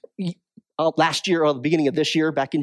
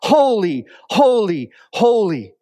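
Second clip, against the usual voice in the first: angels crying out; 4 dB louder than usual. Retold or imitated. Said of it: "these flaming angels crying out".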